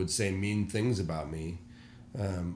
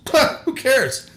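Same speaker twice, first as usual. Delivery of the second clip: much higher and louder, slow dismissive shrug; 11 dB louder, slower than usual. Retold or imitated. Mentor brushing off twenty upset members, slow dismissive shrug. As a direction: toss it off as if nothing matters.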